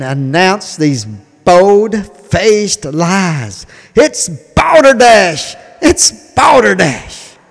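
slow, emphatic outrage; rally speech. Real, not acted. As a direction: drag out each word with scorn. Fired-up political rant.

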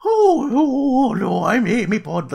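high, breathy Scottish lilt; squeaky put-on Amy voice; Karen Gillan impression. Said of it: "that's my Karen Gillan impression".

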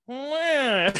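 flat grunt from an uninterested hack actor; mock a checked-out actor's line; bored bad actor. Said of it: "and they're like".

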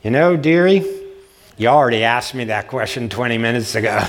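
a hint of a sharp old woman setting the girl straight. Hundred-and-six-year-old woman tells the student she repeated herself, lightly voiced. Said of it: "this hundred and six-year-old woman said to her".

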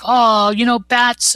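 high, loud playful purr on bats; Harley Quinn voice. Retold or imitated. Harley teasing Batman as he swoops in, high and playful. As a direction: tease him like Harley Quinn. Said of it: "And she's like".

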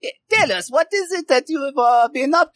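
put-on high accented magician's voice; showy magician. Magician asks the host for news, high accented voice. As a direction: ask in a high, theatrical character voice.

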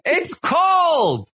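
very high, shrill-free hammed-up whine; squeaky mock panic. Kyle begging Alyssa to leave, very high mock panic. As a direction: play a flustered guy trapped in a cold shower. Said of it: "He's like".

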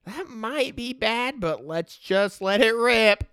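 high, slow, devil-may-care; slow carefree let-it-rip voice; reckless shrug. Retold or imitated. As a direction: shrug off the danger and go. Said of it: "it's just sort of like".

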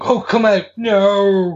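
mock yell at yourself, dragging out the final word; Banner's mock scream. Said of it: "screaming at himself, going".

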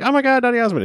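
high squealing fan voice; screaming fan girls. Retold or imitated. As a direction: swoon over the star. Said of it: "all the ladies are like".

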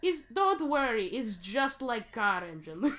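lightly put-on Russian accent, reassuring. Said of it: "my Russian accent".

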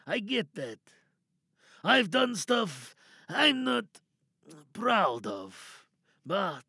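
a sly, wary prisoner bargaining to be freed; lightly voiced cornered lab worker, coaxing then threatening; captive scientist. Tied-up ex-colleague talks his captor toward unlocking him, wary and sly.

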